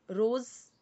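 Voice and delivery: रोज़ ending on a clear voiced z sound; rose with a z sound. Shown as a demonstration. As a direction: say रोज़ with a buzzing z at the end, not a j. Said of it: "बहुत सारे लोग इसे रोज बोलेंगे तो wrong हो जाएगा".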